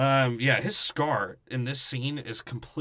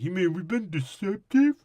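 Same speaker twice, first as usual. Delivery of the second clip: higher-pitched put-on voice; mock dim pirate; 6 semitones higher than usual. Dim pirate answering the captain's insult, mock cluelessness. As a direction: play a clueless crewman, pitched up.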